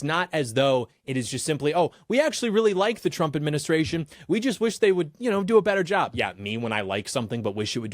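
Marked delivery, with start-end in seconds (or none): 1.7-6.1 higher-pitched imitation of an innocent excuse; lightly put-on plea, pitched up in mockery; mock sincere critic. Host mimics critics claiming to like the administration, mock sincere.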